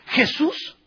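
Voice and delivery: pleading lepers' cry. Acted. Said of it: "Se dirigen a Jesús".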